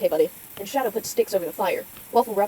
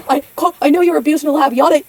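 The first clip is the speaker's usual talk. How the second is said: dismissive; 6 semitones higher, 8 dB louder than usual. Acted. Repeats louder.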